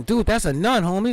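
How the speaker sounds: loud, high bro protest; mock orc homie. Orc warning his buddy about the nun, loud bro voice. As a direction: warn your buddy, loud and laddish. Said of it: "the other guy's going".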